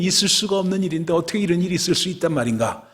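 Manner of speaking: fast, high outburst of amazement; high-pitched, incredulous wonder; astonished disbelief. Acted. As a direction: rush it out, marvelling at the impossible. Acting out Peter's amazement.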